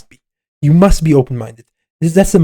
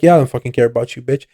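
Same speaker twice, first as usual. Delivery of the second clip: mock dismissive tough guy; 4 semitones lower, faster than usual. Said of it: "he would be like".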